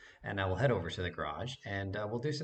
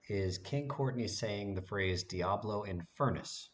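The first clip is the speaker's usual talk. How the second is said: slows down to spell out "Diablo Infernus" clearly; slow and deliberate; slower than usual. Shown as a demonstration. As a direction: draw out each word so viewers catch it. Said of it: "what I want you to watch for".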